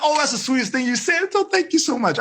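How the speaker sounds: delighted and gushing, rising high; happy teacher. Retold or imitated. Happy teacher thanking a student for kind words. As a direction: beam with pleasure at the compliment. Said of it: "when I'm happy".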